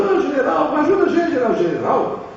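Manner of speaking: high, whiny hammed-up sob; mock crying. Preacher mocking soldiers who beg the general, in a high mock sob.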